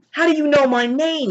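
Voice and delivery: high-pitched, baffled question; mock astonishment, pitch jumping up; acted-out bewildered reply; startled question.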